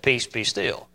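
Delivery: soft, low and hushed; hushed, steady calm; quiet calm command. Acted. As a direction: still the storm gently. Jesus calms the storm quietly.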